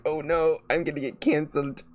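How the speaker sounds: imitating his nervous freak-out; mock panic. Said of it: "he started, like".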